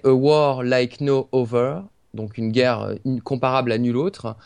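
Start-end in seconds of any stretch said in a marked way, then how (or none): 0.0-1.8 English title read slowly with a French accent. Real, not acted. Podcast host reading an English book title, French accent. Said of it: "pardonnez mon accent anglais".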